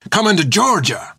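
high, agitated rabble-rousing shout; riled-up rider's shouted warning; shouting at crowd. A narrator's reading. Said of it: "He looked around madly".

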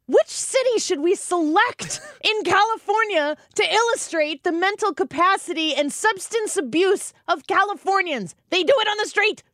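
sarcastic. Real, not acted. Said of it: "sarcastic retort".

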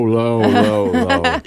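dropped way down in pitch; playfully deep low voice. Shown as a demonstration. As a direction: sink the voice deep on each word. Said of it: "we wanna get low".

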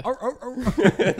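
high, drawn-out straining grunts; straining dog noises. Pretend. Leashed kid reaching for cigarette butts, straining noises.

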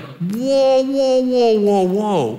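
high, drawn-out chain of whoas; shocked protest. Retold or imitated. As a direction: imitate stunned followers putting on the brakes. Disciples balk at Jesus's news.

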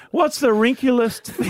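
slow joke setup, giggle creeping in; fighting laughter. Real, not acted. Man on fourth go at the joke, holding back laughter. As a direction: labour through it, about to crack up.

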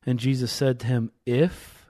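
measured, emphatic Bible reading; scripture reading. Acted. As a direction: read the passage aloud with building emphasis. Reads scripture aloud.

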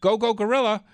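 loud, high rallying cheer; excited cheer. Acted. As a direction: shout it like a pep rally. Cheering slogan in ad.

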